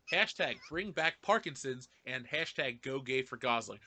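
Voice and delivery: slow careful reading. Shown as a demonstration. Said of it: "I'm gonna read this again one more time".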